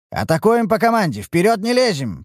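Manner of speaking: loud, firm battle commands; shouting orders. Acted. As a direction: call it out over the noise. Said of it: "прикрикнул я".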